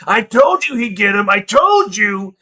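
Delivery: loud, high crowd yell; excited fan crowing about a bet; gloating bettor's shout. Acted. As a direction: holler it over a roaring crowd. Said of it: "sharing bets and going".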